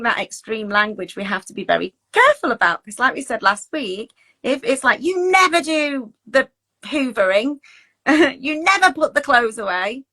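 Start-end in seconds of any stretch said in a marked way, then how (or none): 5.0-10.1 mock accusing complaint. Mock complaint about chores.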